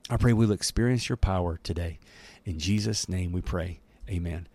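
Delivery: gentle prayer to end the reading. Acted. Closing prayer.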